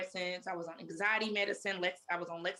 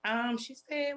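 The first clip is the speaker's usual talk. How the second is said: desperate; 7 semitones higher than usual. Retold or imitated. Retelling suicidal words to sister.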